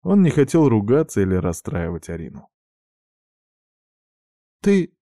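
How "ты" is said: much higher, louder, slow distressed cry; upset. A narrator's reading. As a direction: voice breaking with alarm. Sister upset by his words.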